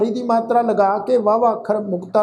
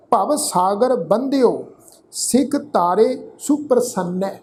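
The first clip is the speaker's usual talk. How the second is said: measured Gurbani reading, phrase by phrase; deliberate teaching recitation of sacred verse; scripture recitation; slower than usual. Shown as a demonstration. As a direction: recite with drawn-out vowels and pauses between phrases.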